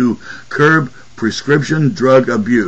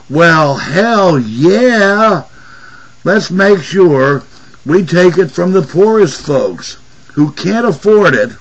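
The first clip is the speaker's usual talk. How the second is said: drawn-out, higher mock enthusiasm; sarcastic; 4 semitones higher than usual. Real, not acted. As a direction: fake cheer dripping with sarcasm. Sarcastic rant about food stamps.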